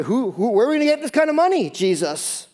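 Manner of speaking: high, fast fretting about money; mock panic over the cost of bread; panicked disciples. Disciples to Jesus, in a high, fast flap over money.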